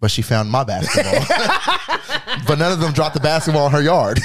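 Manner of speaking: laughing. Real, not acted. Laughing at his own joke.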